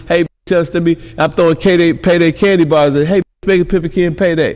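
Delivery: fast, slick hustler patter; pimp pickup line. Shown as a demonstration. Pimp chasing a woman down the blade, rattling off fast lines.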